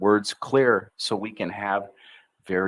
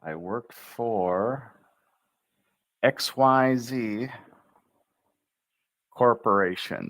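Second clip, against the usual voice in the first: energetic intro; 2 semitones higher, slower than usual. Shown as a demonstration. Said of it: "Give it the energy".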